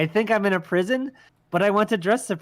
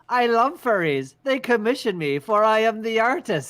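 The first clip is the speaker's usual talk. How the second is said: grandiose announcement; 5 semitones higher than usual. Pretend. Grand self-introduction as the artist.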